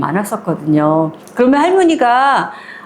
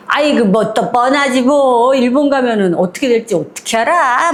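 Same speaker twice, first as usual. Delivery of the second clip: knowing gossip; 2 semitones higher than usual. Retold or imitated. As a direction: drag it out like you know the dirt. Another neighbor gossiping.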